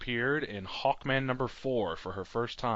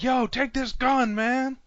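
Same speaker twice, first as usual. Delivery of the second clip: gangster voice; 11 semitones higher, 4 dB louder, slower than usual. Pretend. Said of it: "And they're like".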